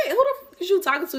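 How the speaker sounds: high, laughing outrage at the intruder; laughing retort. Retold or imitated. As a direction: laugh through the indignant question. Confronting the lady, laughing.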